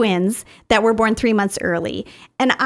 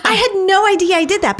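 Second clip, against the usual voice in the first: laughing, higher and louder; 10 semitones higher, 4 dB louder than usual. Real, not acted. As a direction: laugh at yourself in real surprise. Laughing at her own discovery.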